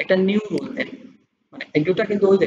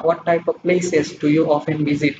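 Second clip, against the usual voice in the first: slow dictated question; much slower than usual. Shown as a demonstration. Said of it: "example question".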